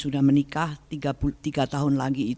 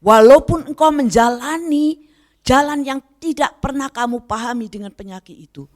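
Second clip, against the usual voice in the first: higher, fervent voice of God speaking to her; raised, lightly acted divine voice; 9 semitones higher, 6 dB louder than usual. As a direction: speak as God gently rebuking. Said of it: "dia bilang".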